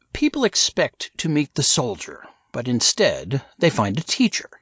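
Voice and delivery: lightly voiced smug insider; Silas explaining. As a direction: lay it out over dinner.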